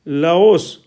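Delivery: "लाओस" with a clear rounded ओ; ओ sound demo. Shown as a demonstration. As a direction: model "लाओस", bringing out the ओ. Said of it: "दूसरा है ओ की ध्वनि में". ("लाओस" में ओ की ध्वनि साफ़)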